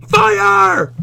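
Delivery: teacher voicing a disbelieving asker; incredulous question. Asked quote inside quote.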